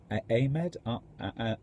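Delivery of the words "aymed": Ahmed said as AY-med; long "ay" opening Ahmed; questioning "AY-med" for Ahmed; trying a pronunciation. Shown as a demonstration. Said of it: "It's like".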